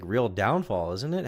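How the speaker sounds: ordinary talk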